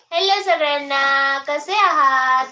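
slow, sung-out hello to viewers; singsong greeting. Real, not acted. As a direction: stretch the greeting like a little tune.

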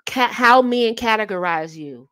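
whispering while writing it down; whispered note. Real, not acted. Jotting a note to herself, whispered. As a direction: murmur it to yourself as you jot. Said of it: "let me write that down".

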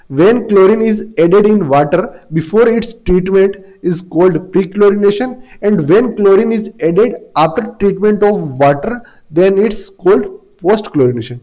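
word by word, very slow and clear, for students to copy; slow classroom dictation. Shown as a demonstration. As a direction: dictate each word so the class can write it down. Teacher dictates definition to students.

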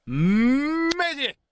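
high, building magic call into long wow; showy magician's reveal. Pretend. Gamer conjuring a new weapon, hammed-up excited reveal. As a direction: wind up, then burst out high.

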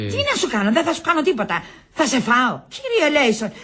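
high, exasperated retort. Acted. Woman to a nervous man backing away, exasperated.

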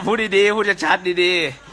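drawn out, loud, every word spelled out; slow and clear. Shown as a demonstration. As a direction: say it slowly and clearly like a demand. (พูดช้าๆชัดๆเสียงดัง)

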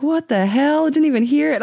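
high-pitched retold disbelief; astonished waitress. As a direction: imitate a stunned waitress, pitch way up.

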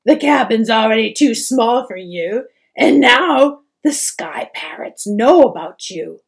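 tearful pleading. A narrator's reading. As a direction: sob it out, voice breaking. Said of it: "she sobbed".

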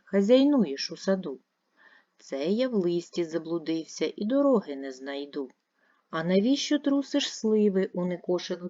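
put-on lively, dramatic recital of a children's poem; expressive poem reading. Shown as a demonstration. Teacher reads a poem aloud to pupils, expressive and lively. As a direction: read it expressively, voicing the wind and the child. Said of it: "Послухайте його".

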